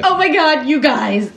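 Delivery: mock excited. Imagined herself finding foot.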